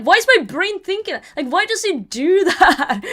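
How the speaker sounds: bewildered outburst at your own brain; high incredulous whine breaking into a laugh; exasperated disbelief. Retold or imitated. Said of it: "but I'm like".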